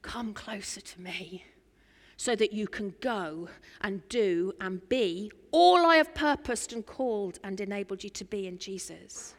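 lightly voiced, hushed divine invitation; soft, intimate voice of God calling near; God's voice. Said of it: "his voice speaks to you again".

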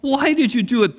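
high, strained groan of "Oh, why did you do it?"; groaning sailors. Acted. Preacher voicing terrified sailors, high groaning. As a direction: sailors moan their despair, pitched high. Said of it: "they groaned".

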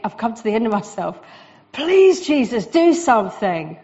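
a desperate prayer cried out loud; desperate begging. Pretend. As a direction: plead with God at the end of your rope. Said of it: "Ever had that begging thing?".

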